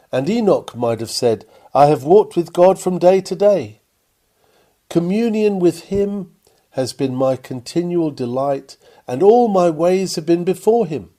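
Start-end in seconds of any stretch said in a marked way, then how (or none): 1.7-11.1 louder, rising with conviction; fervent declaration. Retold or imitated. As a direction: proclaim it with swelling fervour. Enoch's voiced testimony.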